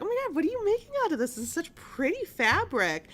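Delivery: high, fast gushing clerk voice; gushing shop clerk. Retold or imitated. Fabric store clerk gushing to dentist's wife, high and fast. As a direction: gush over the pretty lace. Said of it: "the employee's like".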